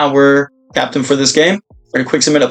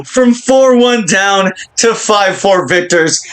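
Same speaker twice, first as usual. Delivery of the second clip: excited; 5 semitones higher, slower than usual. Real, not acted. Savouring the comeback.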